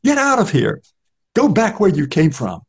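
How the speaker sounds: high, contemptuous spluttered order; the beggar spurns Newman, spluttering; spluttering contempt. Acted. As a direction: spit the words out in contempt. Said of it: "The man spluttered contemptuously".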